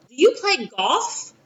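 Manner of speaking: slow question, golf as "goff"; Texas-dialect pronunciation. Retold or imitated. Texas friend asks teacher about playing, golf said "goff". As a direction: ask it slowly, dropping the L in golf. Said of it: "She has a Texas dialect".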